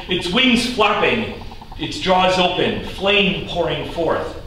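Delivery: dramatic verse storytelling; narrative poem recitation. Acted. Poet telling of the red dragon hurtling from clouds, recited. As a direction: recite the marvel with weighty emphasis.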